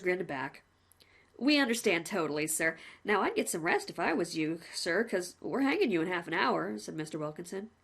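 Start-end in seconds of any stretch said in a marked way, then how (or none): 1.4-6.8 lightly voiced cheerful jailer; a hint of a chummy warden; a plain-spoken warder reporting to the condemned man, lightly voiced; polite prison warden. Warden speaks.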